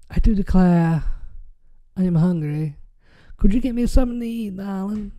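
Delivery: hammed-up genteel Southern accent; old Southern drawl. Hungry old Southerner asking darling for food, Southern drawl. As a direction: play an old Southerner politely begging a favor. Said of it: "the old southern people".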